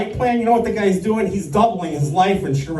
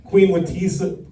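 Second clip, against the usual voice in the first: ordinary talk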